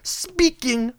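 loud, high mock awe; sarcastic hype. Host mocking fans of royal baby, sarcastic mock awe. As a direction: oversell it with heavy sarcasm.

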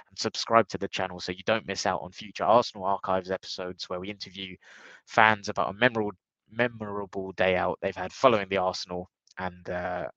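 blocked nose, nasal from a cold. Real, not acted. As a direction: talk through a stuffy nose with a cold. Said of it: "I apologise for my nasally voice today".

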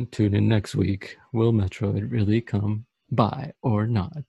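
slow, smooth announcer voice; a touch of buttery TV announcer. Acted. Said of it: "busting out the buttery voice".

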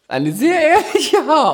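high, slow, laughing mock praise; sarcastic high voice while laughing. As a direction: squeal it out in slow mockery. Mocking remark, high squeal.

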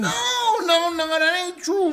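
very high, loud objection; indignant, high-pitched yelling; shouted denial. Real, not acted. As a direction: shout him down. Shouting down friend's claim.

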